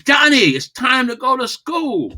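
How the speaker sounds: high, loud mom calling up the stairs; loud and fast. Shown as a demonstration. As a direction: belt it out like a mother at the door. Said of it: "you see how I said that".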